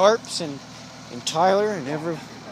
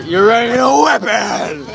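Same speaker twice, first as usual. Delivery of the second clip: excited; 5 semitones higher, 8 dB louder than usual. Real, not acted. Echoing friend excitedly.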